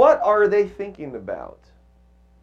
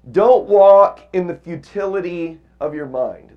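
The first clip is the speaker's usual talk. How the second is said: emphatic verse; 7 dB louder than usual. Shown as a demonstration. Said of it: "So verse seventeen".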